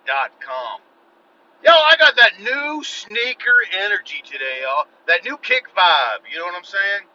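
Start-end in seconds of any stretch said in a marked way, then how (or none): 1.6-7.1 hyped. Acted. Hyped opener, put-on sneaker voice.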